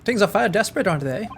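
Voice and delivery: lightly put-on Irish accent; amateur Irish accent, falling off at phrase ends. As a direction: have a go at an Irishman, badly faked. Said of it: "it's a short Irishman".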